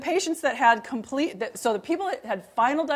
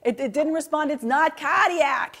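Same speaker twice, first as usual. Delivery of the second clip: imitating a curmudgeonly Boston cardiologist, pitched up; booming Boston accent; 6 semitones higher than usual. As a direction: put on a high, pompous Boston accent. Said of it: "he has this booming Boston accent".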